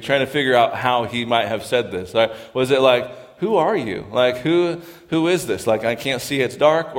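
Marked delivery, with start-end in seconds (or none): 3.4-7.0 raised, searching "Who are you?", as if he can't see in the dark; groping, startled question in the dark; puzzled who-are-you. Shown as a demonstration. Boaz woken in the dark, asking who is there, puzzled. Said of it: "playing a little bit with the intonation".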